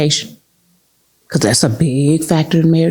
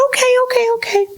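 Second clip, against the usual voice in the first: much higher, chirpy okays; higher, mock-chirpy consultant; eager agreement; faster than usual. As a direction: agree brightly and fast.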